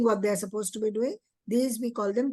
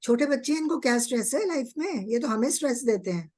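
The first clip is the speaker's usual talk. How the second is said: mock dismissive parent, rushed; quoting parents; 2 semitones higher, much faster than usual. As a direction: parent brushing it off, spoken very fast. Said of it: "parents tell me that".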